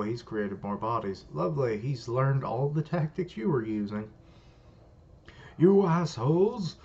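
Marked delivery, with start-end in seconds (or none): 5.6-6.8 high, loud, slow furious shout; angry yell. Acted. Fighter curses the copied bodies, slow furious yell. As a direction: scream it at them in rage.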